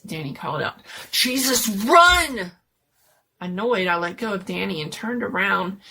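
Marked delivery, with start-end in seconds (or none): 1.1-2.5 high, very loud scream to run; panicked yell. Acted. Friend screaming at everyone to flee, panicked. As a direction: scream it in terror.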